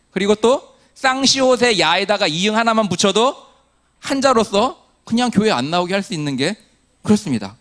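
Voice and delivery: ordinary talk, nothing marked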